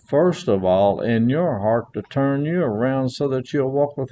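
earnest sermon delivery, rising on key words; preaching. Acted. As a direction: preach it to the congregation with conviction. Preaching to congregation.

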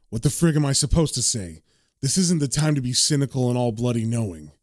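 low, lightly acted inner monologue; understated character narration; John's troubled narration. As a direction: think it aloud, a touch exasperated.

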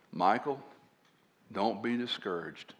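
soft, low-voiced fatherly encouragement; quiet aside. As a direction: lean in and say it softly to a friend. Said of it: "very quietly he'd come up".

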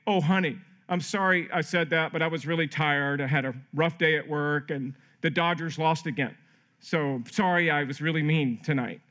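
low-key, blame-shifting mock apology; excuse-making apology. Husband making excuses to his wife, half-hearted apology. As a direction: apologize without really owning it. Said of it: "instead of making excuses like".

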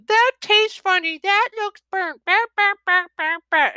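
high, loud picky-eater whine; high mock child complaint; whiny kid. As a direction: imitate a child refusing dinner. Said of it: "I'll still get the".

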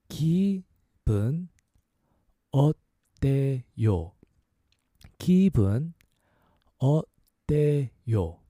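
기분 어때요 said slowly, syllable by syllable; slow teaching demo; slow, careful 기분 어때요. Shown as a demonstration. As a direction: spell out 기분 어때요 slowly for learners. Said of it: "A little faster".

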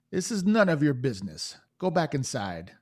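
a hint of a cold boss woman; lightly voiced gang leader. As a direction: dismiss the meddler. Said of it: "The woman says".

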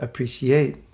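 slow "appreciate" with syllables stretched out; South African pronunciation. Shown as a demonstration. Speaker noting how South Africans say it, extended "appreciate". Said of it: "that's how they say it in South Africa".

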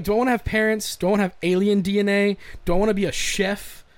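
hyped up about all the options; giddy excitement. Retold or imitated. Giddy repeat of character choices.

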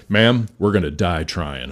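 a hint of a gruff movie cowboy, taking it slow; John Wayne voice. Fire chief reassuring the weeping lady, mock cowboy hero voice. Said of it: "I did my best John Wayne voice".

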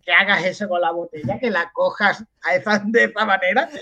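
mock disbelieving question; incredulidad escandalizada. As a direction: act appalled at being misunderstood. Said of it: "mi cara fue de". (incrédulo, fingiendo espanto)

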